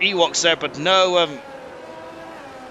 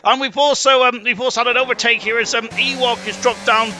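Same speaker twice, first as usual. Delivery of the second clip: sudden excited call; 6 semitones higher than usual. Real, not acted. Milan goes off the circuit.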